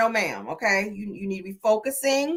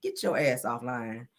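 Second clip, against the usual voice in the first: slow, low and softer, a stern warning; 9 semitones lower, 6 dB quieter, slower than usual. Retold or imitated. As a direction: lean in and say it slowly, low and hushed. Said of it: "I said".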